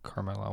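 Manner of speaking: Carmella for Kamala, car-MEL-a; rejected pronunciation. Shown as a demonstration. Host ruling out a reading, Carmella said car-MEL-a. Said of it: "It's not".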